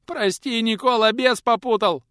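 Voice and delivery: high, loud repeated begging; boy droning out his apology; mumbled plea. Acted. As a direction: repeat it like a spell. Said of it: "продолжал бубнить паренёк".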